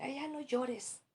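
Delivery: "Ay, ya no llores" agudo y lento, condescendiente; imitación de gente necia. Retold or imitated. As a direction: imita con fastidio a un consolador torpe. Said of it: "mucha gente necia, insensible". (queja aguda y arrastrada)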